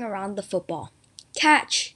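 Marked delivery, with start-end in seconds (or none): 1.3-1.9 loud, higher one-word shout; acted yell. A narrator's reading. Joe throwing the football to his brother, acted yell. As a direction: call it out as you throw. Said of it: "yelled Joe".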